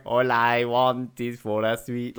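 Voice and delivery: slow, imitating an Indian accent; a light Indian accent impression. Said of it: "in the Indian accent".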